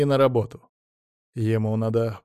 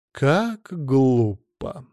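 disapproving; 3 dB louder, much slower than usual. A narrator's reading. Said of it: "покачала головой".

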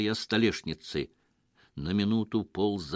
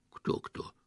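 displeased; 7 dB quieter than usual. Acted. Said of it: "недовольно сказал Петро".

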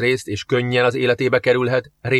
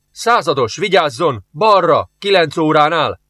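a louder, higher alarmed warning cry; frightened shout; 5 semitones higher, 4 dB louder than usual. Acted. Shout the warning in sudden fright. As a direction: sergeant warns the captain of the creature, frightened shout. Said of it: "kiáltott fel ijedten Zsoff".

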